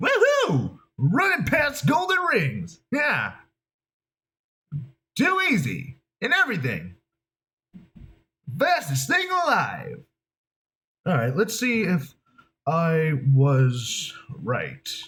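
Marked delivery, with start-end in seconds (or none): 0.0-10.0 very high hero voice, swooping up and down. Making up a voice from a picture, fast and cocky: Sonic the Hedgehog voice. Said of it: "so let me think of a voice".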